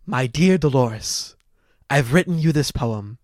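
slow, lightly voiced suitor reciting; mock-grand reading through spectacles; pompous poem recital. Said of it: "pretend to put, uh, put on, like, spectacles".

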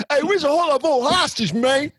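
tossing the line off the way he really said it; mock imitation of the quote. Correcting a friend's quote, lightly mocking imitation. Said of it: "He said it like that".

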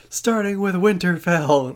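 a hint of Dany's cold proclamation on "Starting with Winterfell."; imitating Dany. Friend mimics Dany's speech, lightly voiced queen. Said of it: "she's like (Dany, line 87)".

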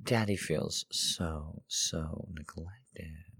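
slow, whiny fake hurt; mock pouting. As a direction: drag it out in a pout. Mock pout after no quotes.

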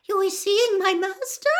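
high elf voice, eager question; breathless. Acted. Winky learns they have seen her master, breathless. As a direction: squeak it in breathless astonishment. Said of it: "said Winky breathlessly".

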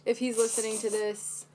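whispered aside for an absent listener; mock secret whisper. Podcast host addressing the man who rejected her, mock whisper.

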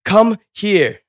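high, loud begging from the tower; desperate plea. Retold or imitated. Jumper pleading with the news chopper, high and loud. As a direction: cry out to the chopper for help.

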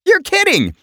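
high, astonished squeal of disbelief; shocked disbelief. Retold or imitated. Host told a singer just walked past him, high astonished disbelief. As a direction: gasp it out as if you can't believe it. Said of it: "I'm like".

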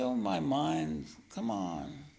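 slow, drawn-out coaxing; sweet pleading. Shown as a demonstration. Self-confessed jerk begging his own mind to be nice, sweetly pleading. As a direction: plead sweetly, stretching the words out. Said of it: "but speak sweetly and say".

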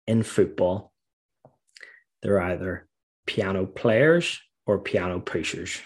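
put-on slow, deliberate Geordie accent, lightly done; a hint of a philosophical Geordie manager; imitating a Geordie manager. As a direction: Geordie manager dispensing wisdom at training, slow and measured. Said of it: "he had this real Geordie accent".

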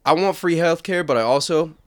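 lightly put-on earnest activist, high and loud setup, dropping for the punchline; mock-earnest declaration, then a deadpan turn; leftist bit character. Friend pitching a dirtbag-left bit, lightly hammed-up activist.

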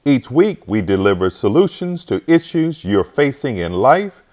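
confident podcast host welcoming listeners; announcer intro. Acted. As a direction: open the show like a radio host.

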